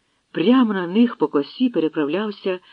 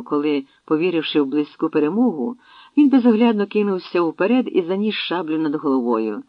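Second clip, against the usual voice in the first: usual speaking voice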